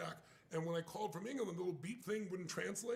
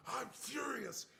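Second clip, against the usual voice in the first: slow, drawn-out angry shout; mock furious shout; 6 semitones higher, much slower than usual. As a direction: act out the partner going apeshit. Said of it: "goes apeshit".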